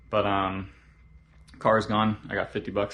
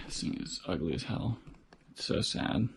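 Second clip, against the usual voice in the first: quiet at night; 3 semitones lower, 5 dB quieter than usual. Real, not acted. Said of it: "I'm whispering because it's very late".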